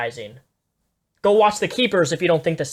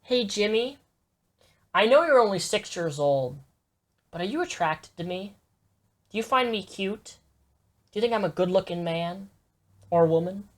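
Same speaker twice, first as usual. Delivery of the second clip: creepy predator voice; 6 dB quieter than usual. Pretend. Voicing a creepy adult to child.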